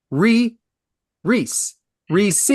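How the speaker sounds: "Reese" sounded out in separate, careful tries; mock-precise "Reese", one syllable at a time; insisted pronunciation. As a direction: pick out "Reese" deliberately, with pauses. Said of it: "he insists that it's called".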